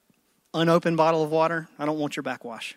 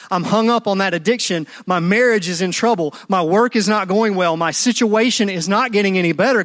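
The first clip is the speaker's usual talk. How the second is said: pleading prayer; 2 semitones higher, 4 dB louder than usual. Retold or imitated. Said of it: "We go".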